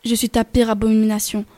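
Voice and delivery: understated icy menace; cold, measured threat from a spectre. Acted. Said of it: "d'un ton glacial". (ton glacial, menace contenue)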